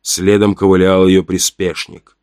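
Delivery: plain reading voice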